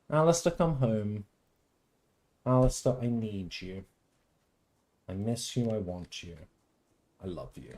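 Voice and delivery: hammed-up yearning plea, fading to a near hush; mock lovelorn plea. Mock pleading to missing character.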